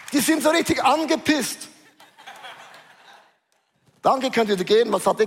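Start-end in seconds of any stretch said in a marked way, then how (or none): 0.1-1.7 laughing. Real, not acted. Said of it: "laugh heard".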